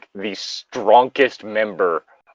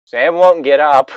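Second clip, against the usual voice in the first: put-on tattling kid voice; 6 semitones higher, 6 dB louder than usual. Pip reporting to Jamie.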